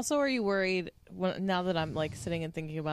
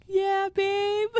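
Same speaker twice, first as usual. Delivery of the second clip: imitating Ron; 14 semitones higher, 4 dB louder than usual. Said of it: "He's like".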